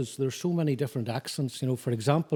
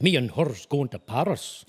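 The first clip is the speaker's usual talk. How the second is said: put-on Lenna accent. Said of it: "imitating the Lenna accent".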